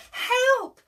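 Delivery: high, loud cry for help; shouted help. Acted. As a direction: yell it like a sailor in a storm. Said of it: "shouted Jim".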